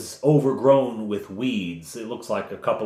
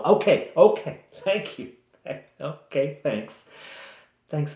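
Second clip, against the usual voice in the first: politely cutting in; 6 semitones higher than usual. Acted. Adventurers stopping the rambling villager, politely cutting in. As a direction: cut the rambler off, half laughing.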